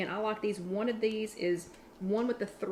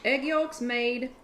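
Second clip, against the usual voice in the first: excited reveal; 3 semitones higher, 4 dB louder, slower than usual. Real, not acted. Guess-what reveal of ingredient.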